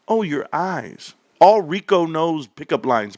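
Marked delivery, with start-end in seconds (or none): 0.1-1.1 slow, soft, lingering compliment; slow flirt. Acted. Man swooning over a woman's eyes, slow and soft. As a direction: stretch it out to charm her.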